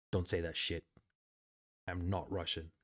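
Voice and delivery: a hint of the annoyed Bulgarian friend; imitating offended friend.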